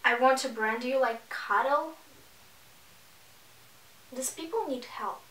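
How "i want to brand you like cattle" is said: disbelieving repeat, rising at the end; incredulous echo. Real, not acted. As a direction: say it back as if you can't believe it.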